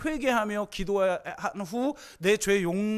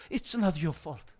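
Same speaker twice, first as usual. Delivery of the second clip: very slow, lower and soft; slow tender reassurance; 5 semitones lower, 4 dB quieter, much slower than usual. Acted. Therapist repeating it's not your fault slowly. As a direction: let each word land gently. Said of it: "그러면서".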